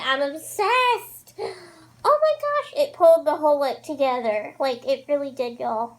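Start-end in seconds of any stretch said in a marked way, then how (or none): 0.0-1.3 high and slow, drawn out; gushing. Real, not acted. Raving about liner. 2.0-4.5 excited squeal. Real, not acted. Raving about liner.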